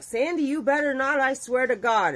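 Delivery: high-pitched urgent threat; imitated desperate warning. Husband begging cousin not to reveal his name, urgent.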